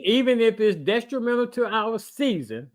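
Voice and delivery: emphatic, careful restating. Real, not acted. Making his point to a confused cohost, slow and deliberate. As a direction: lay it out word by word. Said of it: "let me say it a little bit slower".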